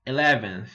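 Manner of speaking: eleventh repeated clearly; eleventh, teacher repeat; repeat after me. Shown as a demonstration. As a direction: echo eleventh. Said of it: "O décimo primeiro".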